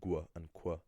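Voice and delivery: gwa and kwa, G and C each with a w-like glide; mispronounced G and C. Shown as a demonstration. Irish teacher quoting common learner errors, mispronounced gwa and kwa. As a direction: say gwa and kwa as bare letter sounds. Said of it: "being pronounced as".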